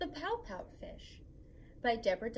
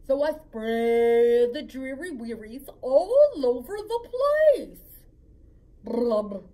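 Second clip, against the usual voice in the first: much louder, belted sulky refrain; wailing pout-pout fish; 11 dB louder, slower than usual. Acted. Fish belting its gloomy refrain at the jellyfish. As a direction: wail the refrain dramatically.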